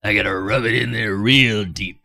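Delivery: put-on voice. Shown as a demonstration. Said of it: "repeated in a put-on voice".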